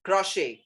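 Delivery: crochet as "kro-shay", silent T; correct crochet. Shown as a demonstration. Teacher introducing the word, crochet as "kro-shay". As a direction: end crochet on the open vowel "shay". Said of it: "It is not crochet".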